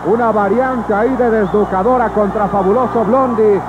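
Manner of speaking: rising excitement, calling the action; wrestling commentator. Real, not acted. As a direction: call the fight as it heats up. Live wrestling play-by-play building up. (narrador de lucha libre emocionado)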